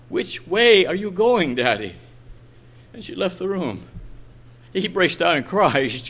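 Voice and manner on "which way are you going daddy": innocent, insistent question. Retold or imitated. Little girl pressing her father for an answer, innocent but firmer. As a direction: press the question, lightly imitating the child. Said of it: "she innocently asked him".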